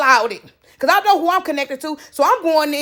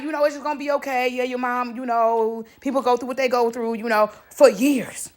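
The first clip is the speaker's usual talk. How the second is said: soft reassuring tone; 2 semitones lower, 5 dB quieter than usual. Retold or imitated. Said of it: "And I'm like".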